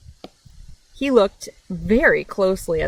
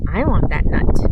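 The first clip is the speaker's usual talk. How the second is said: lightly voiced, louder covetous line; greedy mouse thought; 3 semitones lower, 4 dB louder than usual. Mouse craving the friend's nut, greedy mutter. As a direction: say it like a small animal who wants it badly.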